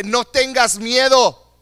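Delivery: loud, slow and earnest; earnest command. Acted. Preacher urging the congregation, slow loud command. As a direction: press it into them slowly. Preacher repeats God's words.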